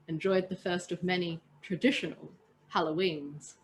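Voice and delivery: calm read-aloud storytelling voice; steady storyteller narration; story narration. A narrator's reading. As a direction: read it like a bedtime tale to friends. Reads story aloud to listeners.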